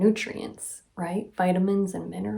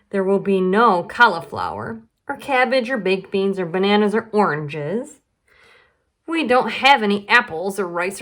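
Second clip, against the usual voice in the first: playful big brother; 2 semitones higher, 4 dB louder than usual. Acted. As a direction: reel it off like a sly joke. Charlie answers Lola.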